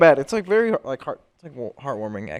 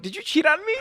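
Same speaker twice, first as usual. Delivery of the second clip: high, shouted accusation; calling his ex, shouting the question high; retold shout. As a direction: yell it at the ex on the phone. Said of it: "I'm like".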